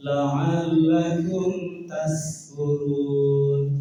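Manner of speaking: "La'allakum tashkurun" dilagukan pelan dengan s tipis; sin tipis, salah. Shown as a demonstration. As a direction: tiru bacaan keliru sambil melagukan. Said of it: "Bapak Ibu baca tipis". ("tashkurun" dibaca tipis, dilagukan)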